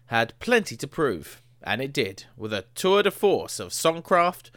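measured magazine read, over music; a touch of announcer voice; formal review read-out. Acted. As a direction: read it like a radio intro. Reading the Rolling Stone intro.

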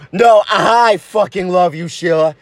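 low-voiced, insistent lover; earnest low declaration; insistent boyfriend. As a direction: outdo your sweetheart's declaration, keeping it low. Lovers outdo each other's declarations.

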